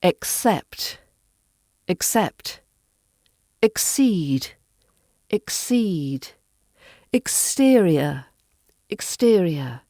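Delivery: "accept", "exceed", "exterior" with a crisp k-s; each word alone, "exceed" with unvoiced ks; voiceless KS in X. Shown as a demonstration. Teacher models words for learners, voiceless ks in "accept", "exceed", "exterior". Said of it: "we use a x sound".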